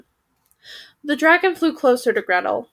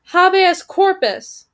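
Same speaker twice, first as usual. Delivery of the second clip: high, loud, drawn-out war cry; 8 semitones higher, 5 dB louder, slower than usual. A narrator's reading. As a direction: proclaim it slowly like a battle slogan. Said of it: "cried the first".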